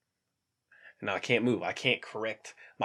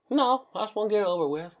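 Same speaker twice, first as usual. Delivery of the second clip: much higher-pitched impatient reply; impatient patient; 12 semitones higher than usual. Retold or imitated. Patient answering the doctor before surgery, high mock impatience. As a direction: imitate a patient wanting it finished.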